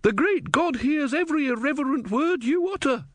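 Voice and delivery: high indignant scolding; indignant woman. A narrator's reading. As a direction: scold like an outraged believer. Woman continues hotly.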